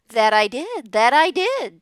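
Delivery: loud, high repeated reply; loud goose. A narrator's reading. The goose confirms the loose board, loud and high. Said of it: "said the goose".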